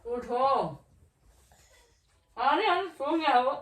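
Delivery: calling out loudly to rouse him; wife shouting to wake her sleeping husband, loud and high. Real, not acted.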